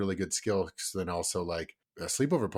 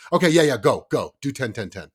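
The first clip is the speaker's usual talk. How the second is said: put-on eager kid; 3 semitones higher, 10 dB louder than usual. Kid voiced agreeing eagerly.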